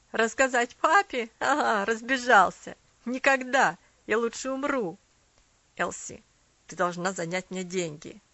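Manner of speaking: put-on loud, fierce refusing boy; defiant boy voice. A narrator's reading. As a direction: flare up defiantly.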